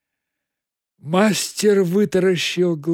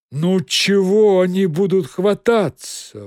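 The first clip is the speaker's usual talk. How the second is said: reassuring; 5 semitones higher, 5 dB louder than usual. Acted. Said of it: "успокоил Коровьев".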